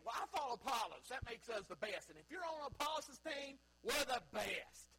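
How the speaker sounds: mock Apollos fan showing off his team; hammed-up church partisan; boastful churchgoer. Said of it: "They're playing".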